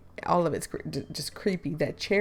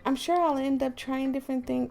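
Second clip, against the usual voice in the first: lightly raised game character voice; a hint of put-on higher voice; wrong character voice; 6 semitones higher than usual. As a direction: read it slightly higher, like the other character. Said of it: "I'm messing up the voices already".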